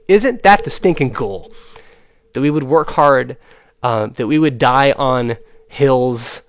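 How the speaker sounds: exasperated outburst. Real, not acted. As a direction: push it hard, fed up. Exasperated rant continues.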